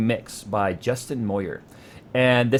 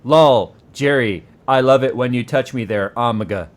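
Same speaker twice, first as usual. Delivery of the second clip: louder, mock-robotic love line; literal robot voice; 5 dB louder than usual. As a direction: read the slang out literally like a bot. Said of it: "it's so literal".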